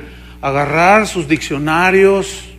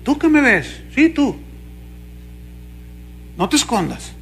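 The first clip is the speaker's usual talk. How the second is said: mocking TV preacher; 6 semitones higher, 6 dB quieter than usual. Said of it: "y luego".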